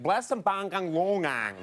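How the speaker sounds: nonsense syllables swooping high then dropping; mock garbled holler in singsong swoops; imitated garbled shout. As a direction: mimic an unintelligible audience member. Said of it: "It sounded like".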